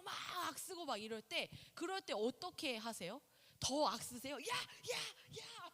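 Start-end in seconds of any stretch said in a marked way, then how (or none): 4.4-5.7 high sharp scolding "야, 야, 야!"; mock parent yell. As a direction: yell at the child like a frazzled parent. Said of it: "하면서".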